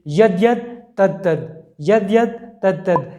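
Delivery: slow, measured word pairs from the verse; deliberate recitation. Real, not acted. Speaker unpacks the shloka's key words for listeners, slow and deliberate. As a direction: spell the verse out slowly, pair by pair.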